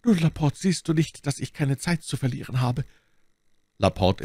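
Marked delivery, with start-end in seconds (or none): 0.0-2.8 high, strained voice, falling away; dying duke, urging. A narrator's reading. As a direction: press the servant with failing strength. Dying duke urges servant. (sterbender Herzog, drängend)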